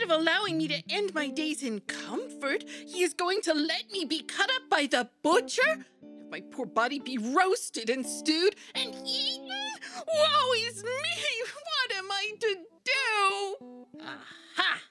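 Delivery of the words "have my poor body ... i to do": slow, wailing lament; despairing wail. Acted. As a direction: cry out in despair. Monkey wails in despair.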